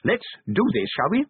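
high-pitched, quavering little man being brave; frightened but resolute, voice pitched high; teeth chattering. A narrator's reading. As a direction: declare it earnestly through chattering teeth. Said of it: "his teeth chattering".

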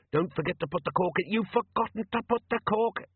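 tinny machine voice. Acted. Device's last bubbling words.

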